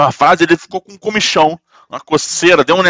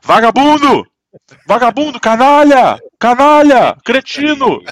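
put-on stilted old movie melodrama; Orestes Quercia; 8 semitones higher than usual. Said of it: "incorporou um Orestes Quercia no Fabão e ele começou a mandar".

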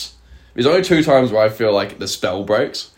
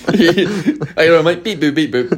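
robot voice; 6 semitones higher, slower than usual. Pretend. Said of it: "teach myself to speak robot".

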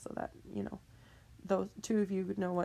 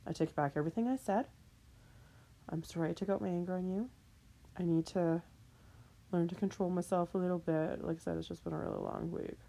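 apologetic; 2 semitones lower than usual. Real, not acted. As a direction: make amends gently. Apologizing to Mother Nature.

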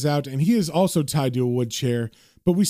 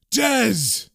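high acted cry, volume held back; yelling out; 6 semitones higher than usual. John left alone with wounded Dez, yelling out. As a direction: call a friend's name in mock desperation. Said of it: "John is yelling out".

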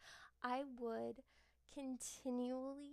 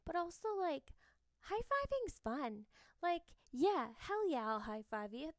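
excited gush; 5 semitones higher, 4 dB louder than usual. Real, not acted. Gushing about high fives.

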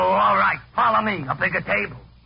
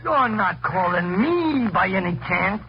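sarcastic; 2 semitones lower, slower than usual. Acted. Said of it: "I see no need for sarcasm".

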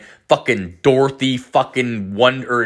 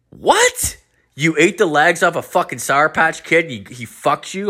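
incredulous friend; 6 semitones higher than usual. Retold or imitated. Friend in disbelief.

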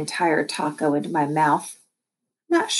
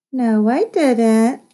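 indignant; 7 semitones higher, 5 dB louder, much slower than usual. A narrator's reading. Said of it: "said Lexi".

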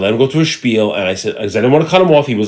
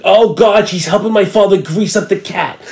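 higher-pitched prank phone panic; mock alarm; 6 semitones higher, slower than usual. Prankster answering a call for mom, mock alarm. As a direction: act out a mock emergency, drawn out.

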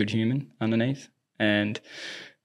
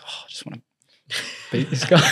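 whispered start breaking into a laugh; half-laughing imitation of Nick; laughing quote; 4 semitones higher than usual. Coach retelling Nick ignoring autograph seekers, laughing. Quoting Nick while fans ask.

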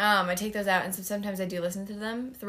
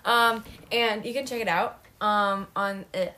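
talking with hair in mouth; words blocked by hair in mouth; 4 dB louder than usual. Real, not acted. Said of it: "sorry, I had hair in my mouth".

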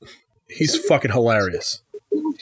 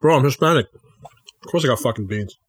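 mouth full. Real, not acted. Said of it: "what he's eating right now".

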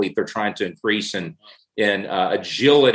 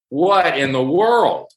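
disbelief; 5 semitones higher, 3 dB louder, slower than usual. Retold or imitated. Sony moved the release date.

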